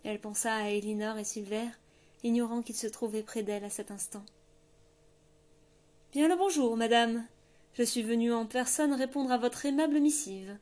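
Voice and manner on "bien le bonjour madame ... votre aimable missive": mock courtesy. A narrator's reading. Grey man's mock-courteous greeting.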